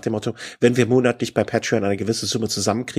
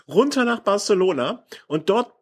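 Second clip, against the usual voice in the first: sarcastic storytelling; 6 semitones higher than usual. Real, not acted. Spinning sarcastic fantasy story.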